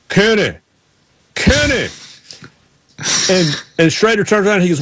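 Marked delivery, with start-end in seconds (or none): 0.1-1.9 imitated high-pitched call; Ward Burton. Driver calling to a man mid-interview, imitated high call. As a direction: call out in a mimicked high drawn voice, falling off. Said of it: "all of a sudden I hear".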